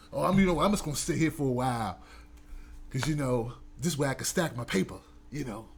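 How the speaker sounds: lazy excuse. Retold or imitated. Imitating someone making excuses.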